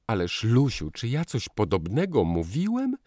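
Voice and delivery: high, loud pained protest; pained call. A narrator's reading. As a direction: call out, hurt. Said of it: "zawołał boleśnie".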